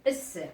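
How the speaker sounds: "S" sounded as a hissing s sound; letter "S" voiced as a hissing s sound; sound demo. Shown as a demonstration. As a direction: say "S" as the sound s, not the letter name. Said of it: "le S se prononce".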